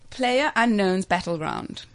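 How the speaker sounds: "PlayerUnknown's Battleground" said slowly and word by word; slow clear repeat. Real, not acted. Host repeating the game's name to co-hosts who misheard, slowly and clearly. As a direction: spell "PlayerUnknown's Battleground" out slowly so they catch it.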